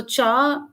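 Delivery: "cha" dipping then lifting at the end; falling-rising tone. Shown as a demonstration. Lecturer recalling the longest Dogri word, "cha" falling then rising. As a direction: say "cha" with a fall and rise. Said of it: "having the falling, rising tone".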